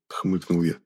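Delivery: usual speaking voice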